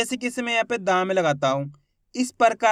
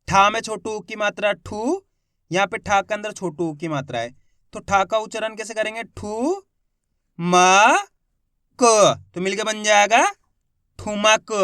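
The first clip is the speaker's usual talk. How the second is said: syllable by syllable. Shown as a demonstration. Teacher sounding out a Hindi word for the class, letter by letter. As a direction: sound out each letter, then blend. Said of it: "मेरे तरीके पे गौर करना है".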